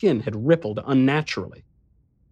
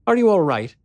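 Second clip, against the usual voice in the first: higher, sweetly concerned woman; 8 semitones higher, 4 dB louder than usual. A narrator's reading. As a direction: ask gently, all honey and worry. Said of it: "she said with sweet concern".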